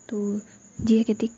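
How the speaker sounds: usual speaking voice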